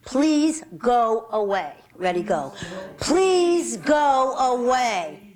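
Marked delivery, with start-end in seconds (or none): 3.0-5.3 slow, stretched words for the group to chant; drawn-out model phrase. Shown as a demonstration. Self-defence teacher leading the group's chant, drawn-out and deliberate. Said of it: "let's say it a little bit louder".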